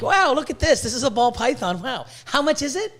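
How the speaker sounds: wowed buyer. Retold or imitated. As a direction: ham up a dazzled shopper. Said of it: "I'm like".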